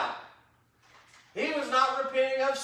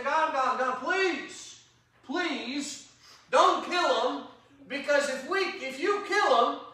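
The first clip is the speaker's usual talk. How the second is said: higher, urgent begging of God; pleading Moses; 5 semitones higher, 3 dB louder than usual. Acted. Preacher voicing Moses begging God to spare the people, higher pleading. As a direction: beg him, please, don't do it.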